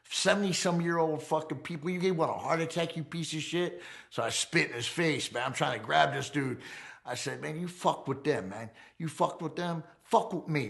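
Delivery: tearing into the man who hurt the family; retold furious rant. Convict retelling how he screamed at the FBI agent, heated. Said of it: "I went completely off".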